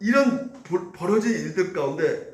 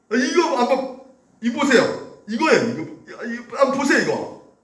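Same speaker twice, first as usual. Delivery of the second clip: higher, resentful jabbing complaint; venomous voice; 4 semitones higher than usual. Retold or imitated. Older son to his father, venomous complaint. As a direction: spit it out like a son full of spite. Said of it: "악독이 가득 찬 목소리죠".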